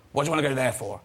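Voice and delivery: a hint of his mum's incredulous tone. Mum scoffing at son going to France. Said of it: "She went".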